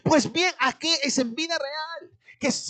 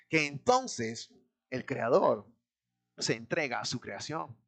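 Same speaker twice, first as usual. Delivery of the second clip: hushed awe; 13 semitones lower, 7 dB quieter than usual. Acted. Preacher drops to hushed awe.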